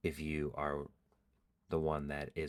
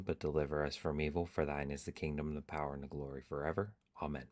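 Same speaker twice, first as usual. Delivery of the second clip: prayer recital; faster than usual. Acted. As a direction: rattle off the prayer from memory.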